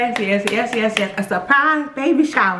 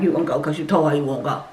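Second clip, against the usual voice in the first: mom insisting; 8 semitones lower, faster than usual. Retold or imitated.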